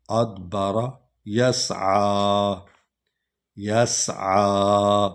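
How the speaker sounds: یسعی slow, with a sharp hissing س and long final vowel; یسعی slow with crisp hissing s; whistled seen. Shown as a demonstration. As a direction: let س in یسعی whistle, drawn out. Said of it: "سین سیٹی کی آواز نکلنی ہے".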